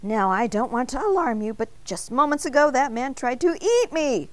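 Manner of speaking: alarmed warning. A narrator's reading. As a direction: sound the alarm, voice up and insistent. Donut warns baker in alarm.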